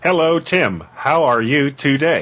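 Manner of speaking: slow, even synthesized Mac voice; computer speech voice. Pretend. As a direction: imitate a text-to-speech voice. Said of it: "are you talking with your leopard voice".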